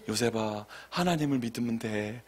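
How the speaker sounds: soft, calm word of comfort; gentle reassurance. Shown as a demonstration. Preacher showing what to tell worried Joseph, gentle reassurance. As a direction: reassure quietly, without pushing.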